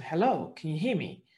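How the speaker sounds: a nagging voice that won't give up; persistent. Retold or imitated. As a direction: keep calling until they answer. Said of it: "until it was really persistent".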